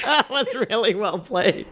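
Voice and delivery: slow words broken up by laughter; laughing. Real, not acted. Podcaster applauding a co-host's joke, laughing. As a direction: laugh while giving credit for the joke.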